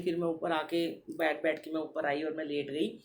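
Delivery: ordinary talk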